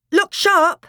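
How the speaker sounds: high, loud warning; urgent shout. Acted. Edmund warning the other children, urgent shout. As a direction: shout a quick order. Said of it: "shouted Edmund".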